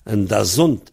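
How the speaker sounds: "Dazont" accented on ZONT, the last syllable; final stress on Dazont. Shown as a demonstration. Teacher repeating the Breton word, "Dazont" stressed on the final syllable. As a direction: put the weight at the end of "Dazont". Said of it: "l'accent est sur la finale".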